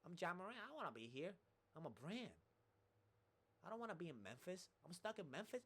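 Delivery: mock Ja Morant whining. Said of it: "Imagine Ja Morant came like that".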